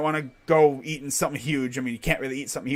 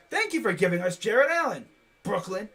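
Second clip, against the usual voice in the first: mock gratitude; 4 semitones higher than usual. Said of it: "I'm over here like".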